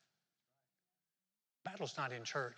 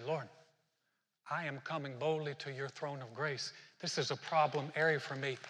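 pleading prayer; 5 dB louder than usual. Retold or imitated. Voicing a prayer for help.

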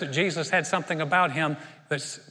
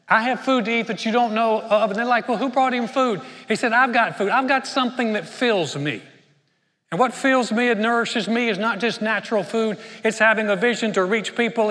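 preaching fervor; 4 semitones higher, 3 dB louder than usual. Acted. Jesus declares his purpose, preaching.

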